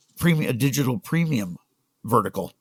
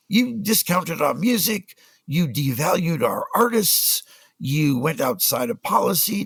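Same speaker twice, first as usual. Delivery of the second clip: put-on higher, slow, lightly accented rant; mock Afrikaner scolding; 5 semitones higher than usual. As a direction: list the crimes like the angry Afrikaner boss. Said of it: "screaming at me".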